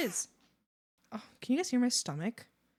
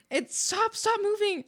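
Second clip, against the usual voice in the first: excited plea; 11 semitones higher, 4 dB louder than usual. Real, not acted. Chat message keeps moving.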